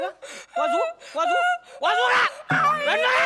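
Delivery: high, loud comic threat; exasperated high-pitched yell; threatening shout. Acted. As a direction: holler a warning at someone crying. Threatens to smack the crying one.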